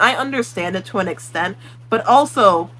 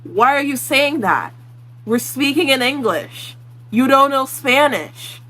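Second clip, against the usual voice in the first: slow, higher-pitched scolding; drawn-out exasperation; 4 semitones higher, slower than usual. Acted. Vlogger challenges someone faking Spanish, slowly exasperated. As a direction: stretch each phrase out in disbelief.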